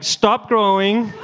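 high, loud, drawn-out order; shouted command. Retold or imitated. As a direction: call out a mock-urgent halt, stretching the words. Acted panicked command to growing arm.

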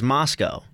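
"Moscow" said MOS-koh; long-o ending. Shown as a demonstration. Co-host sorting out the Russian city, "Moscow" ending in -koh. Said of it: "I've heard it both ways".

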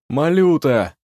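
loud calling name. A narrator's reading. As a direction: call into the burnt house. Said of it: "позвал".

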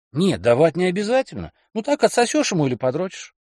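high, wheedling man; coaxing boyfriend. Acted. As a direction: talk her into it lightly. Kelly voiced.

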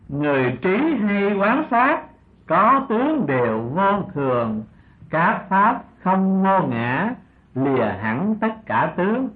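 slow, measured recitation of a scripture verse; drawn-out, deliberate verse reading. Acted. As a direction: recite each line slowly, with long held syllables.

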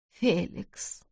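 тихий стон, на выдохе; простони имя мужа, тихо; простонала. Acted. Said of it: "простонала она". (больная жена зовёт мужа: тихий стон)

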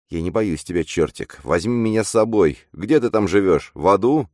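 put-on girl's lisping voice, rising high; slushy sh for s. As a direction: lisp every s like sh, childlike. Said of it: "сказал шепелявый девчачий голос".

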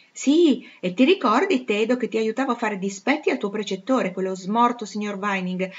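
mock the old governesses with relish; a spoiled noblewoman laughing at her tutors; haughty young lady. Blanche continues.

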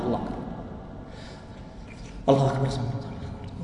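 الله أكبر gabbled in a rushed breath; mock hurried prayer mumbled low and soft; الله أكبر run together carelessly; rushed takbir. Shown as a demonstration. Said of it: "ورا بعض، لا".

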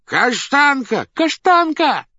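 high, loud calls to a dog; loud calling. A narrator's reading. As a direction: call out across a crowded hall, high and loud. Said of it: "громко позвали". (громкий зов)

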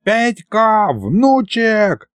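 high, hurried-sounding grandfatherly call; urgent calling. A narrator's reading. Grandfather bursts in calling his grandson, high urgent cry.

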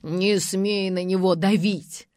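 loud angry shout, slow on the second line; old man yelling in defence of his son; furious outburst. A narrator's reading. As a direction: lunge at him with the words. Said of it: "налетел на Полуянова".

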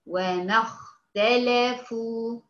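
وما اختلفوا with a full heavy خ, slow; heavy kha. Shown as a demonstration. Teacher demonstrating the heavy خ to her student. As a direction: stretch out the خ in اختلفوا with full emphasis. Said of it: "تنطق الخاء في هذه الحالة تفخيم حقيقي".

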